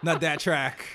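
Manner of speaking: laughing mock British accent; cheeky British accent through laughter. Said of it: "hard to get the thuggy, like, like, British accent".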